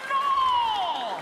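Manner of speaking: high, loud shouted no. Retold or imitated. Comic yelling in disbelief that they are on air. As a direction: yell it out in disbelief.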